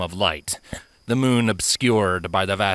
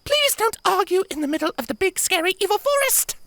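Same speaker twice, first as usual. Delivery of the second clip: begging. Acted. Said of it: "Sapphire begged".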